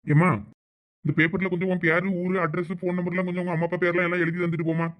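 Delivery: a lightly voiced policeman, matter-of-fact. A lightly voiced policeman asking the girl to fill the form. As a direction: ask for her details like a station officer.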